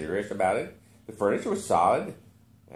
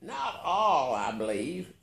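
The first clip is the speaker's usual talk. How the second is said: put-on naive childishness; 5 semitones higher, slower than usual. A narrator's reading. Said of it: "with a naive childishness".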